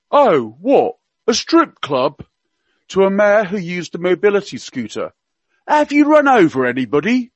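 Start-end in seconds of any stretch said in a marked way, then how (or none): 0.1-2.2 Prince Philip in Cockney. Retold or imitated. Radio guest quoting royal gaffes to listeners, mock Cockney accent. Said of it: "he spoke with a Cockney accent". 5.7-7.3 higher, hammed-up Cockney accent; Prince Philip in Cockney. Radio guest quoting royal gaffes to listeners, mock Cockney accent. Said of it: "he spoke with a Cockney accent".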